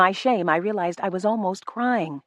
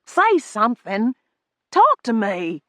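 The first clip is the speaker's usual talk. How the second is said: 1 loud demand; 5 semitones higher, 4 dB louder, slower than usual. A narrator's reading. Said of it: "another command".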